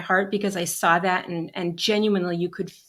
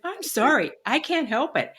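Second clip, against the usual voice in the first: retold teary apology; 6 semitones higher than usual. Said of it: "I burst into tears".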